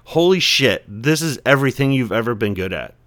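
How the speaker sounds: sudden realization. Retold or imitated. Recalling the moment he found his calling, amazed. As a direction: shout it out as it finally clicks. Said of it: "And it was like".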